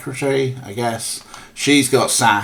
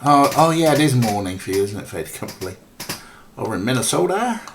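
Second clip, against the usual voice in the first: bad Minnesota accent; 3 dB louder than usual. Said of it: "that's a terrible Minnesota accent".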